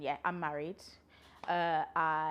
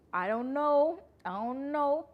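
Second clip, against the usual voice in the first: a high, louder sing-song shrug; playful high "I don't know"; 8 semitones higher, 7 dB louder, slower than usual. Real, not acted. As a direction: toss it off in a mock-clueless high voice.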